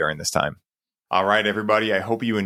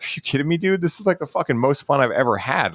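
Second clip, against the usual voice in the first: gleeful scientist; 5 semitones higher than usual. Retold or imitated. Lead scientist answering the somber president, gleefully excited. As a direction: gush like a lab nerd having the time of his life. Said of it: "that lead scientist is like".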